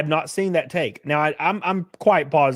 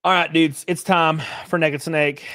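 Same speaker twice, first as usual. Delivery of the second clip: announcer; 3 semitones higher than usual. Acted. Announcing his stream segment.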